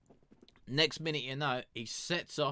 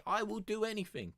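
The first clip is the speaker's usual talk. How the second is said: pleading; 9 semitones higher than usual. Acted. Character still begging God.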